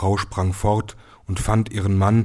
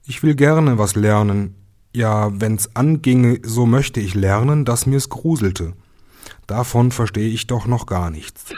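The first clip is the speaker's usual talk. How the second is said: eager youngest son; 3 semitones higher, 5 dB louder than usual. Acted. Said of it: "antwortete er".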